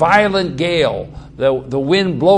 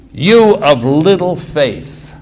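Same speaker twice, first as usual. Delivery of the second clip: mild rebuke; 4 dB louder, slower than usual. Retold or imitated. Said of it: "Jesus kind of criticized him".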